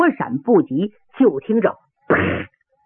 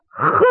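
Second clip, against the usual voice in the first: short "hng" through the nose; contemptuous snort. Acted. Fighter scoffing at his rival before the bout, contemptuous snort. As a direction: snort at the opponent. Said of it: "用鼻子哼了一声".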